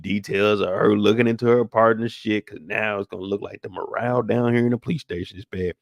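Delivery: a fed-up precinct captain barking orders at his detectives; grumbling boss laying down the law, tired and irritated; captain chewing out his squad about Burke; police captain. Acted. In-character captain rant to detectives.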